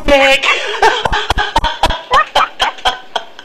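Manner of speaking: long, loud, high laugh. Real, not acted. Host laughs after cheering. (tertawa lepas)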